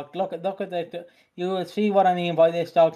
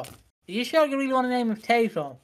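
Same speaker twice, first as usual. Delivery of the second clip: incredulous owners; 7 semitones higher than usual. Retold or imitated. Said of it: "they went".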